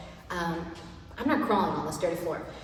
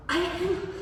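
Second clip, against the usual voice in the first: laughing shout; 9 semitones higher, 7 dB louder than usual. Real, not acted. Wobbling on exercise ball.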